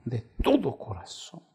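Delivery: slow whisper of de todo corazón; hushed intimate repeat; whispered plea. Acted. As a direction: breathe it like a prayer. Whispered repetition after cry.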